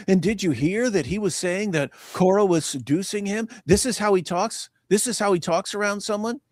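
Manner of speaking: high, incredulous mocking voice; mock gossip. Mimicking friends gossiping about the seducing joke. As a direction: gossip in a scandalised squeak. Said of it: "Everyone goes on".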